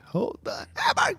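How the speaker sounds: high-pitched mock yell; imitated exasperated yell. Imitating the yelled line just played.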